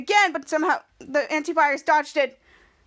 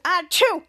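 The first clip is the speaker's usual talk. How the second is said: sneeze; 3 semitones higher, 3 dB louder than usual. Retold or imitated. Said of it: "both antivirus sneezed at them".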